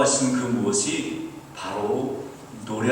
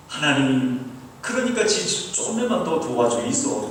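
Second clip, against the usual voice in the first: imitated plea in Busan dialect; crying out in prayer. Grieving son asking God again, Busan-dialect pleading. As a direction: beg a little more help, Busan-accented. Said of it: "부르짖었습니다".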